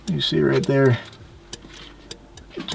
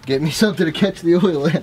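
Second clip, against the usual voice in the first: raised voice, pitched up, a bit louder; higher, insistent call to a coworker; mild yell; 5 semitones higher, 3 dB louder than usual. Real, not acted. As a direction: raise your voice to order a helper. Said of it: "Don't need to yell at me".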